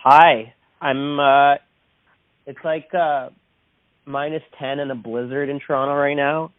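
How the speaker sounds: phone line audio; speaking through a phone call; over the phone. Real, not acted. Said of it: "I am on the phone right now with".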